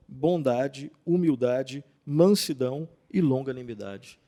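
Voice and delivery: solemn Bible reading, opening loud; scripture reading. Acted. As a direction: proclaim the verse from Colossians. Reads Colossians aloud.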